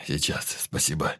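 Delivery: calm. A narrator's reading. Pyotr thanking his man, now calm. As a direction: say it calmly now. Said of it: "уже спокойным голосом".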